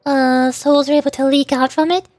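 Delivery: lightly voiced young narrator, earnest and regretful; reading character lines. Streamer reading a game character's confession, earnest.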